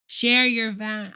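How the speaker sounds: slow, cut-off mumble; mock slurred politician; imitating Perdue. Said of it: "he couldn't say values".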